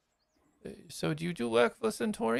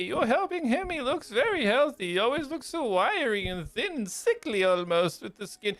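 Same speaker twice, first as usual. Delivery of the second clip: higher, louder fatherly gushing with laughs; gushing old father; 3 semitones higher, 3 dB louder than usual. Acted. Father praising Elion to his friend, gushing. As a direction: dote on the son. The father gushes over the son.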